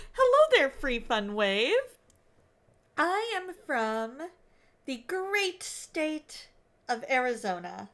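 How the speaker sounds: put-on hearty amateur Aussie accent; Australian accent attempt. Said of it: "attempt to do the Australian accent".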